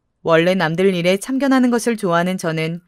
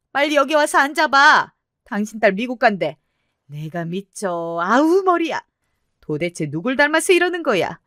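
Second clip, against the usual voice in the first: frantic mother; 4 semitones higher than usual. Acted. Mother panics, calls husband.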